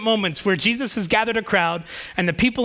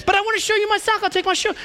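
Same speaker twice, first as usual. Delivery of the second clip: put-on much higher, excited little kids; clamoring kids; 11 semitones higher, faster than usual. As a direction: pile on like a crowd of eager children. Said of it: "other kids are like".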